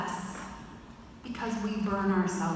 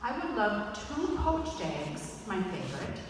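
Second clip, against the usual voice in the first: slow wistful request; 4 dB quieter than usual. Retold or imitated. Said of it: "this is what I said".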